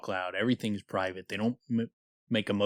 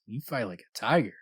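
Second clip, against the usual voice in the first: suggestive, flirtatious. Acted. She rubs his arm to show a sexual advance, said flirtatiously. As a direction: linger on the words as a come-on. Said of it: "rubbing his arm, squeezing his muscles".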